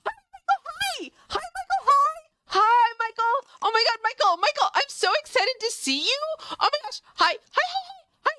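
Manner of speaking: put-on high, sing-song baby talk to a pet; squeaky voice for the cat. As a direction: coo over him like a baby.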